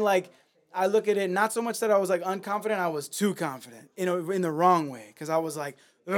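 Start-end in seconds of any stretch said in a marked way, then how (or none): 6.1-6.1 short, throaty "ugh" of aggression; aggressive grunt. Retold or imitated. Rapper showing how he came at crowds, aggressive grunt. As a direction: grunt like a pumped-up battle MC. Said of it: "I was just very aggressive".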